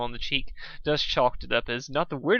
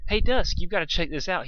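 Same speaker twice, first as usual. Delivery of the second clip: excited Spike; 6 semitones higher, 4 dB louder than usual. Acted.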